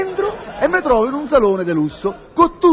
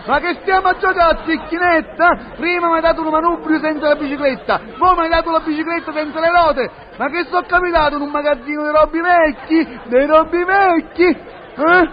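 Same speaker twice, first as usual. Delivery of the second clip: indignant yelling; 2 semitones higher than usual. Acted. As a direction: rant as if cheated, without full volume. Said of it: "Mi metto a urlare".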